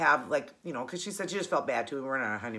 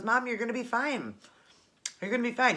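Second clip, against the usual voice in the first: higher-pitched imitation of a reassuring son; mild retold comforting; 7 semitones higher than usual. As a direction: soothe mom in a raised, lilting voice. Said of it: "trying to help me feel better".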